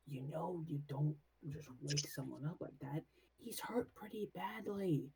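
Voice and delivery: soft, hushed in-character reproach; very quiet voice. Acted. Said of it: "in a very quiet voice".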